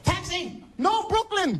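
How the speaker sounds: high calling-out Taxi; hailing a cab. Retold or imitated. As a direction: call Taxi across the street. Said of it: "Must not have seen me".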